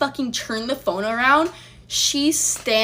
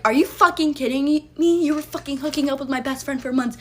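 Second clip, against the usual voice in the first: higher, louder furious accusation; retold angry yell; 4 semitones higher, 3 dB louder than usual. Confronting the boyfriend about cheating, retold angry yell. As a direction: throw it at him like a shout.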